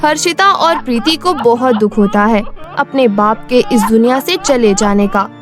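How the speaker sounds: usual speaking voice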